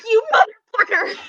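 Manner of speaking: high, hammed-up exasperated curse; playful outrage; mock curse. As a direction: throw it at the universe. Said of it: "Wednesday I was like".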